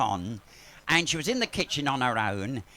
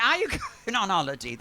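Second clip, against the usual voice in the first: fast, lightly raised mimicry breaking into a laugh; quick hairdresser impression with a giggle; mock hairdresser, laughing; hairdresser's voice; 5 semitones higher, much faster than usual. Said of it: "'Cause she talks like that".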